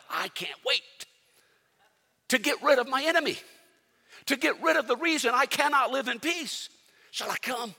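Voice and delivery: mock overeager king craving revenge; excited rush. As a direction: gush like you can't hold back. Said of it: "what happens when we get excited".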